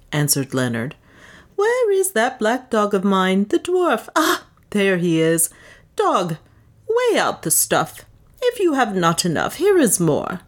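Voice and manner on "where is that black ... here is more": higher, careless command; a touch of imperious swagger; lightly voiced swaggering buyer. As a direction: order the servant about with bluster. Leonard plays a swaggering slave-buyer.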